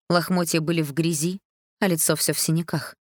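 usual speaking voice

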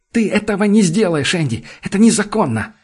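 shout. A narrator's reading. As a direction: yell the threat. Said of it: "кричит он". (крик в панике)

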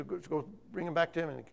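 ordinary talk

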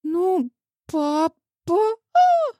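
put-on a girl whose father let her down; high, slow sobbing cry. A narrator's reading. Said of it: "всхлипнула".

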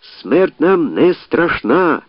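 high squeaky shout, like a little mouse; shrill mousey outcry. A narrator's reading. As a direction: cry out in a thin mousey squeal. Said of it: "писклявим, мишачим голосом закричав".

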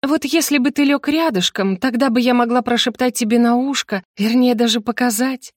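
высокий игривый голосок; замани мужа, разыгрывая невинность; притворная стыдливая девственница. Pretend. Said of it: "играть я роль стыдливой девственницы". (жеманно и игриво)

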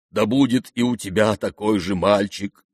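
usual speaking voice

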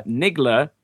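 "Niggler" pronounced with cautious care; careful pronunciation. Real, not acted. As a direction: say "Niggler" carefully, each syllable distinct. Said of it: "I'm gonna be careful how I say this".

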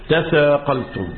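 slow, deliberate تثاقلتم with the ت fully sounded; original form spelled out. Shown as a demonstration. Teacher to students, slow demo of تثاقلتم. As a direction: say تثاقلتم slowly, both ت and ث heard clearly. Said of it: "هي أصلها في اللغة".

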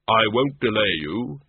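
slow and grave, unhurried; Death's slow, measured voice. Acted. Death greets the tiny Death of Rats, slow and grave. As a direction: speak as a calm figure of Death.

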